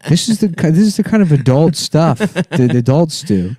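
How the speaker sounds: lightly voiced coaxing little girl; high kid voice. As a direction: pitch up into a kid. Daughter voiced coaxing the other.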